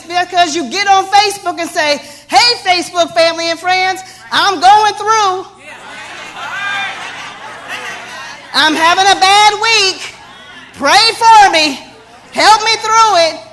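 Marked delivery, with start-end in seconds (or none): 2.3-13.4 mock needy poster. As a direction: parody someone airing troubles to online friends. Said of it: "I don't have excited clients".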